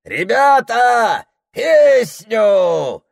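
slow, very loud high shout; shouted call. Acted. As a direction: call from afar for a song. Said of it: "кричала ватага".

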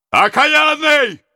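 slow, loud, high curse; furious cry. A narrator's reading. Prince cries out in rage at the robber. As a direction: hurl the curse at him. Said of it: "вскричал князь".

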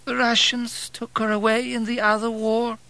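put-on high old woman's voice, subdued; dully. A narrator's reading. Old woman telling of her lost daughter, dull. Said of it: "she said dully".

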